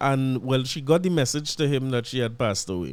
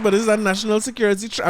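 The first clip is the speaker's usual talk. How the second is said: mock alarm; 7 semitones higher, 4 dB louder, faster than usual. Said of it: "I was ready to cause a scene".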